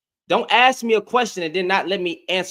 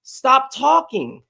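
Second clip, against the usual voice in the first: slow, higher stop talking; stern command; 4 semitones higher, 6 dB louder, much slower than usual. Real, not acted. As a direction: draw out each word to shut him down. Silencing the guest who keeps interrupting.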